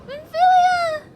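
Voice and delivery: real despairing scream; anguished scream. Real, not acted. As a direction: scream her name as she's taken. Screams character's name in despair.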